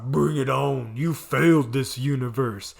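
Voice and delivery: mock deep hero voice; a hint of hooded-vigilante menace. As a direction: lightly imitate a brooding hero's low voice. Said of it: "just, like, deep voice".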